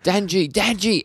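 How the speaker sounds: high-pitched, loud imitated call. Nayata calling to Denji, high mock calling-out.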